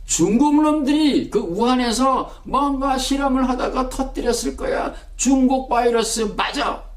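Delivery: lightly voiced bigoted self; inner bigot voice. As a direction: sneer it like a prejudiced man convinced he's right. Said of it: "그랬어요. 속으로".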